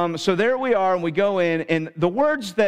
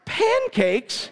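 laughing punchline. Real, not acted.

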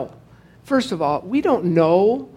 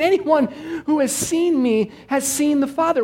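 "Anyone who has seen me has seen the Father" read higher, with a punch on "Anyone"; emphatic reading; 8 semitones higher than usual. Shown as a demonstration. Preacher pointing out the verse's exclamation point, stressing "Anyone". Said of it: "There's some emphasis".

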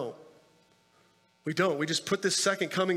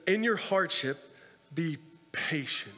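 slow emphatic repeat; 2 semitones lower than usual. Shown as a demonstration. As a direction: let "be patient" sink in slowly. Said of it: "He says".

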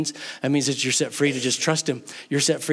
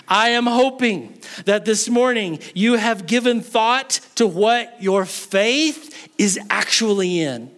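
raised, high-pitched preacher's voice; forceful sermon delivery; emphatic preaching; 6 semitones higher, slower than usual. Real, not acted. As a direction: press it on the congregation, pitched up.

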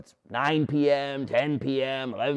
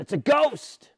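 high, frightened cry of the disciples; 11 semitones higher, slower than usual. Acted. Disciples in the boat crying out at the ghost, frightened. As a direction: cry it out like a scared fisherman.

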